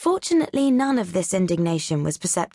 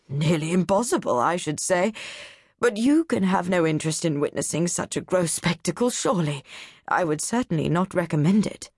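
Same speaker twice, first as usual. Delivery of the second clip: a hint of a condescending college man; pompous don. Doctor Nichols sneering at the atlas readers, lightly voiced.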